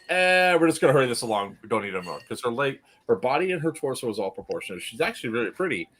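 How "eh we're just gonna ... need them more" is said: raised, dismissive "eh" falling away; imagined careless creator. Acted. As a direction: shrug it off mid-job. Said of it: "it's like".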